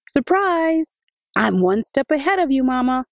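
put-on high, bright child's voice, jumping out with a surprise; excited little boy. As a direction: play the eager boy popping out to surprise Mama. Adika, the boy, surprises Mama.

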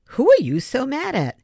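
high, loud, probing question; pointed demand. A narrator's reading. Girl confronting the angry new boy, high and loud. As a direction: dig for the truth hard. Diamande repeats her question.

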